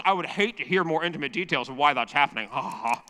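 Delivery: talking through a mouthful of popcorn; munching popcorn while speaking; mouth full of popcorn. Real, not acted. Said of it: "now my mouth is full of popcorn".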